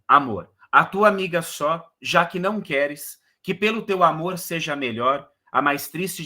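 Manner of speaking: measured, lilting sonnet reading; declamação de poema; poem recitation. Shown as a demonstration. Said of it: "teacher recites the sonnet".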